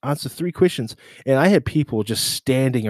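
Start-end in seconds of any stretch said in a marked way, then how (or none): 0.0-1.0 louder hawker call, higher pitch. Retold or imitated. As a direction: hype up the crowd like a vendor.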